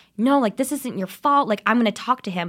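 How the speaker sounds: angry voice. Retelling how Eli reacted when she wanted the video down: imitating Eli getting mad. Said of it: "Eli then starts getting so mad".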